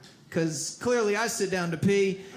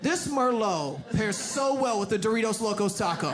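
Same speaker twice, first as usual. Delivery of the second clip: mock wine connoisseur. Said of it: "dude be like".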